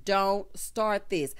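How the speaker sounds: slow, warning "Don't start this."; slow deliberate repeat. Shown as a demonstration. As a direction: stretch "Don't start this." out slowly, each word weighted.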